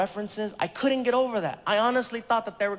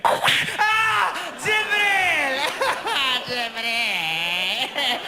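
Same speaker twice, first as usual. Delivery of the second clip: higher, louder pleading cry of his name; imagined apology; 6 semitones higher, 4 dB louder, much slower than usual. Retold or imitated. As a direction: call out in a panicked rush. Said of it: "I'm like".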